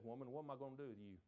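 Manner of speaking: quick, mild exasperation; exasperated son. Retold or imitated. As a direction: brush her off quickly. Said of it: "His response said".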